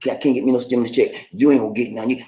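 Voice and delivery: low, gruff man's voice; a low mock Joe grumbling about his check; imitating Joe. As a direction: growl it like the angry husband. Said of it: "Joe said".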